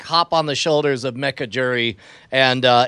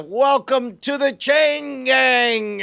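slow, drawn-out one-liner; action hero quip; 9 semitones higher, much slower than usual. Acted. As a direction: deliver it like a movie tagline, slow. Player's one-liner while revving.

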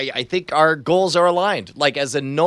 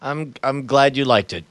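weary, sighing voice; exhausted sigh; 5 semitones lower than usual. Acted. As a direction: let it out on a tired sigh. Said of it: "with an exhausted sigh".

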